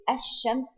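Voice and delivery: "ash-shams" with no l, straight into the doubled sh; silent lam. Shown as a demonstration. Teacher giving the silent example, "ash-shams" without any l. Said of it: "it is not pronounced at all".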